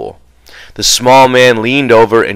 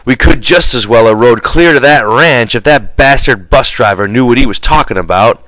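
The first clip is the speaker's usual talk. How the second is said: louder, grumbling complaint; said angrily; 2 semitones higher, 4 dB louder than usual. Acted. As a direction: gripe hotly about the bus driver. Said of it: "He said angrily".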